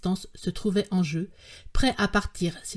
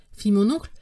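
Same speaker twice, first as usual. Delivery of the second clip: plain reading voice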